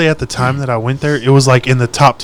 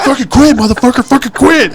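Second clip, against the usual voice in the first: higher, louder mock yell with a laugh in it; half-laughing, shout the order to quit; retold yell; 10 semitones higher, 5 dB louder than usual. Pinned under the pickup, yelling at the bull rider to stop, laughing mock yell. Yelling while holding attacker down.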